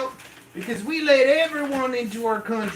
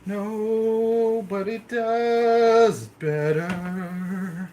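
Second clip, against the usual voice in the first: drawn-out brag; 4 dB louder, much slower than usual. Acted. Brags, drawn out.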